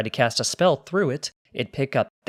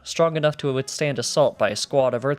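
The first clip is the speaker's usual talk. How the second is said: steady storyteller read; story narration. A narrator's reading. Narrator reading the heist story to the guard, steady storytelling.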